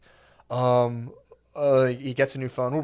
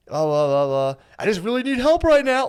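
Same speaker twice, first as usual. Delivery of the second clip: high, pleading mock whimper, much louder; scared voice; 10 semitones higher, 8 dB louder than usual. Junkie kid calling his dad for money, imitated in a high scared voice. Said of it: "Like, like a scared voice".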